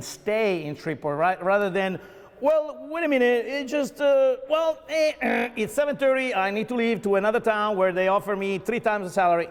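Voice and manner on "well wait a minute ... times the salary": high, hesitant voice of a graduate making excuses to leave; a lightly voiced fickle young worker; mock departing graduate. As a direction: play the young hire stalling, then announcing he's off for more money. Mocking a graduate leaving town.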